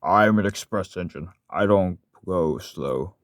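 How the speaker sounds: slow, drawn-out proud express engine; put-on voice, stretching the words out; character voice. Shown as a demonstration. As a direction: boast slowly as an express engine. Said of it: "here's some other characters I like to voice".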